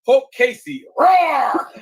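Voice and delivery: loud high mock roar of a transformed monster dog; hulk roar. Joking about the dog turning Hulk, loud high mock roar. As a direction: bellow it like the Hulk bursting out. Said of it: "Then she transforms".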